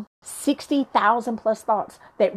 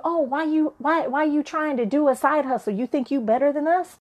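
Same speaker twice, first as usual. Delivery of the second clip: lightly voiced challenging naysayers, higher pitch; naysaying folks; 4 semitones higher than usual. Folks in your camp doubting your side hustle, mildly mocking challenge. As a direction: imitate accusing friends questioning you. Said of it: "folks in your camp that are telling you".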